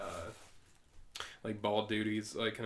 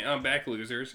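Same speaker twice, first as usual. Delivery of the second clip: star; 3 semitones higher, 5 dB louder, slower than usual. Acted. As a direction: gloat it like a smug parrot. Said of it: "can you do it?".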